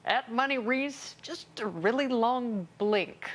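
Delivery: slow, drawn-out mock Kerry voice; John Kerry impression. Host voicing Kerry's reply tweet, slow mock impression. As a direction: drawl it out slowly like a weary senator. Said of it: "Who talks like that? John Kerry".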